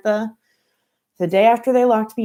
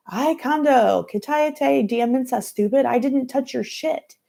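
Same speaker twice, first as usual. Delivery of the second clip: put-on Dominican accent; 7 semitones higher, slower than usual. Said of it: "in her thick Dominican accent".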